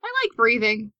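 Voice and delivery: high, fast, desperate plea; high pleading voice. Acted. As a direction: beg for help in a squeaky voice. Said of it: "He's just like".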